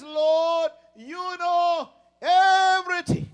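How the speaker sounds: loud, slow, drawn-out plea; Peter pleading. Acted. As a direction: stretch it out like a broken man. Peter's reply voiced again.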